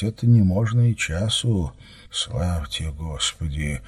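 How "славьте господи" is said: low, hushed prayer, softly voiced; hoarse whisper, understated. A narrator's reading. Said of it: "проговорил он хриплым шёпотом".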